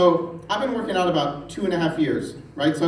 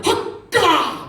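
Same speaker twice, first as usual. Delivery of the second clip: higher, louder mock war cry; rugby cheer; 13 semitones higher, 5 dB louder than usual. Father-in-law cheering the rugby kickoff, shouted. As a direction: bark it like a rugby fan on the couch.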